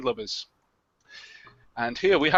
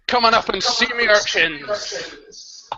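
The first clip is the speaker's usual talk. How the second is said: slow leering pirate; 3 semitones higher, slower than usual. Shown as a demonstration. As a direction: drawl it like a sea dog. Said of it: "No, not like that one. That was rubbish".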